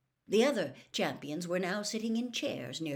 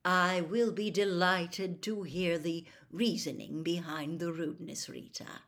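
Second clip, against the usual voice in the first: a courteous put-down with a smile. Acted. Headmaster courteously rebukes the reporter's rudeness. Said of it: "with a courteous bow and a smile".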